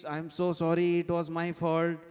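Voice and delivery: hammed-up motherly sorry; acted apology. Mother's tearful apology in retelling.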